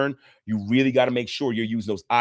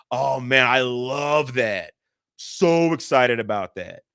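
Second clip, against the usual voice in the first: mock gushing wife; much slower than usual. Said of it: "Said no woman ever".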